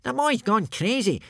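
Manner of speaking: high-pitched exclaiming character; Baggy Bum the Beerbelly. A narrator's reading. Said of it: "said Baggy Bum the Beerbelly".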